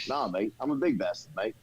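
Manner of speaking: put-on casual New Zealand accent. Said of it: "in his Kiwi New Zealand accent".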